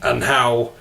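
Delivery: Yorkshire vowels in the speaker's own pitch; Yorkshire accent. Shown as a demonstration. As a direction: talk cricket like a Yorkshireman. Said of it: "okay, Yorkshire".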